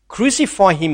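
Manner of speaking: a firm mock crowd cry; mild retold shout of the crowd. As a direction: call it out like an angry mob, lightly. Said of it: "they shouted".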